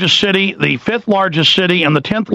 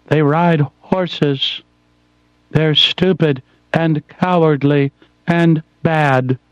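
mock snooty voice; slower than usual.

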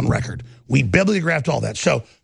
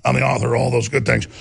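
mocking the devil. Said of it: "and the devil's like".

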